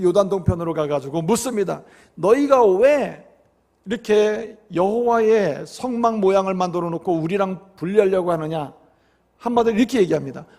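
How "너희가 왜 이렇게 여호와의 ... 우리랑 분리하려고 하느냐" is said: a preacher's acted reproach, easing after the opening; lightly voiced rebuking question; mild retold scolding. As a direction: imitate envoys demanding an explanation. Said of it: "그러면서 야단을 칩니다".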